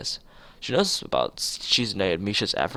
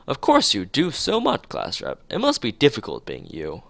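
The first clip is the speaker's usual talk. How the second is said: innocent unsarcastic praise; 4 semitones higher than usual. Acted. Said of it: "without even a hint of sarcasm".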